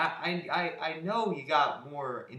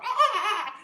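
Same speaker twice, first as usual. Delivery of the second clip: much higher squealed ah, then a loud mock line; Nick Swardson voice; 9 semitones higher, 13 dB louder, slower than usual. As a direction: squeak it out like the dopey character. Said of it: "shows Nick Swardson going".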